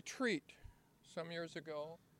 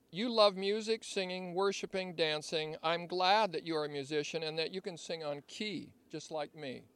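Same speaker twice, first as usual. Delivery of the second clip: reading a love letter; 3 dB louder than usual. Shown as a demonstration. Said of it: "as I read this love letter".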